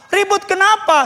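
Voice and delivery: high-pitched insistent questioning; probing question. Retold or imitated. Pastor questioning a congregant in trouble, insistent.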